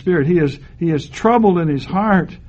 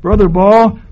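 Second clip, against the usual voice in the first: amazed visiting pastor; slower than usual. Retold or imitated. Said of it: "they would almost always look at me and say".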